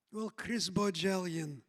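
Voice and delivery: a hint of Israeli accent, mock stern; imitated Israeli accent. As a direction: address him by full name like a drill sergeant. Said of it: "She said to me".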